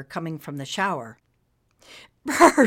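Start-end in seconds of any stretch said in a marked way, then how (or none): 2.2-2.7 high, loud cold-water shiver brr; girl shivers under cold water. Acted. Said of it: "she said with a shiver".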